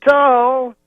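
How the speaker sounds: high loud shout; crowd-rousing yell. Retold or imitated. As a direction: call it out to a stadium. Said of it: "He goes".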